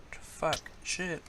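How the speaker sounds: fast anxious begging under the breath; panicked pleading. Real, not acted. About to drown in game.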